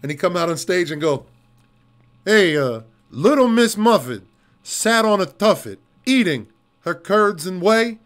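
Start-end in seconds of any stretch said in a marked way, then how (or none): 2.3-8.0 Brooklyn tough guy. Retold or imitated. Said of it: "talking like a tough dude from Brooklyn".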